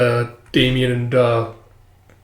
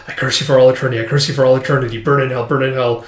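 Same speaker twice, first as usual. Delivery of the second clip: deadpan cursing at the usual pitch; faster than usual. Acted. Bumped girl curses the kid to herself, deadpan. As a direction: chant the curse with no feeling. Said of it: "all deadpan and goes".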